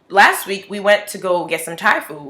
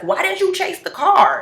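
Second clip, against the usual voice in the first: coworker voice; 13 semitones higher, 3 dB louder than usual. Retold or imitated.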